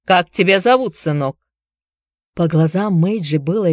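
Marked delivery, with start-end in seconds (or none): 0.1-1.4 put-on Irish accent. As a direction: ask it in an Irish brogue. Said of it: "с сильным ирландским акцентом".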